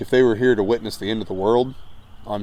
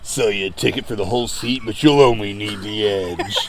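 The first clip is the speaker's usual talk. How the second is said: monster truck announcer. Pretend. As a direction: drag out the punchline like a promo.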